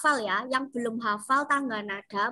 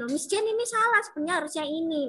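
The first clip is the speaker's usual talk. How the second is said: lightly imitated pupil, higher at first and quick; querying pupil; 3 semitones higher, much faster than usual. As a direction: quickly mimic a pupil pointing out a mistake. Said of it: "banyak kemarin yang tanya seperti itu".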